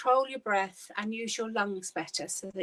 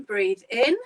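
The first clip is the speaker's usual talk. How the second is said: breathing coach; 8 dB louder than usual. Shown as a demonstration. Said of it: "And again".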